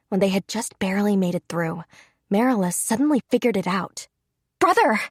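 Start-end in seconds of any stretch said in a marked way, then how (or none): 4.6-5.0 high, loud joyful yell of relief. Acted. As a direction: call out to her brother across the field. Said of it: "she yelled".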